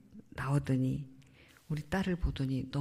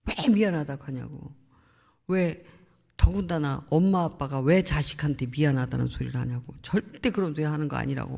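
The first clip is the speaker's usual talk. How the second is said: mock indignant protest, pushed a little louder; retold angry objection; 2 semitones lower, 4 dB louder than usual. Son objecting to parents apologizing, retold annoyance. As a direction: retell his scolding with a touch of anger. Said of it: "화를 내요".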